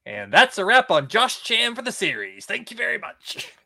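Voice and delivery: high, loud wrap-up announcement; mock announcer sign-off. Podcast host signs off Josh Chan for the series, mock announcer. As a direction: call it like the end of a show.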